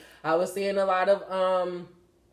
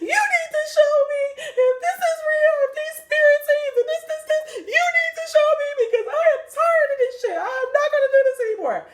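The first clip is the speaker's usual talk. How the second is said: hammed-up high, loud, crying rant; tearful cussing out; 6 dB louder than usual. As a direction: re-enact a furious, sobbing ultimatum to God. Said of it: "just cussed out God".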